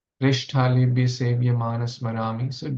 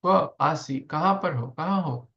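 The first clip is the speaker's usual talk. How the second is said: calling out; 4 semitones higher, faster than usual. Shown as a demonstration. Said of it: "Radharani is calling".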